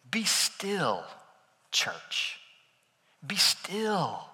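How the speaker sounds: softly whispered call to the church. Acted. Pastor hushes the congregation.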